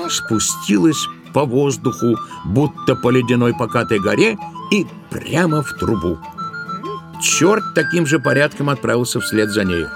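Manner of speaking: usual speaking voice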